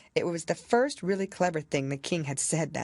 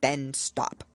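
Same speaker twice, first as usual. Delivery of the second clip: higher, louder, solemn royal command; grave king; 7 semitones higher, 3 dB louder than usual. A narrator's reading. King instructing the White Rabbit, grave. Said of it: "the king said gravely".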